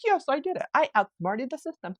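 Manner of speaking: real gleeful victory cry; excited. Real, not acted. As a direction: celebrate outsmarting it out loud. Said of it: "you can hear my excitement".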